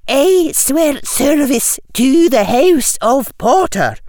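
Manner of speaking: slow, solemn Scottish teacher. A narrator's reading. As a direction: intone it like a stern schoolmistress. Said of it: "said Professor McGonagall".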